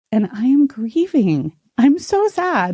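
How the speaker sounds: slow, choked-up sadness; teary. Real, not acted. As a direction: voice thick with tears. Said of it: "like, getting teary".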